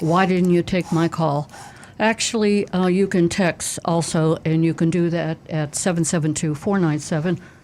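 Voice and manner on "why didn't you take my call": plain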